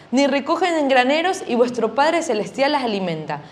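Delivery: measured, solemn Bible reading; scripture reading. Acted. Teacher reading Matthew to the children, solemn reading. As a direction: read the verse with reverence.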